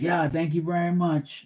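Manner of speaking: dad mumbling thanks on his way to the bathroom, dismissive; offhand mumbled thanks. Retold or imitated. Imitating dad, mumbled in passing. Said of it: "you know how he says it?".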